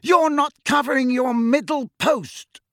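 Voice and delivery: high, drawn-out call across the pitch; shouted reprimand. A narrator's reading. Captain to keeper hovering at the wrong hoop, shouted reprimand. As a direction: holler a sharp correction at a teammate. Angelina shouting at Ron in practice.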